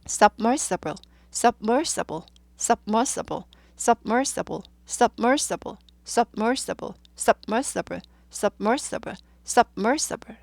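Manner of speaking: submersible with a crisp stop after sub; clipped syllable break. Shown as a demonstration. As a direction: cut submersible cleanly after sub each time. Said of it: "여지없이 딱 끊으세요". (submersible을 sub에서 딱 끊어 반복)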